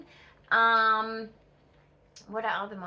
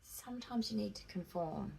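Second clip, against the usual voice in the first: retold lecturer's advice; 11 dB quieter than usual. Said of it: "but he was like".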